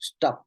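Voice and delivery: "Stop" set apart as a demo; a single crisp "Stop" for students; demonstrated articulation. Shown as a demonstration. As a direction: articulate "Stop" short and distinct. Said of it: "how do I articulate?".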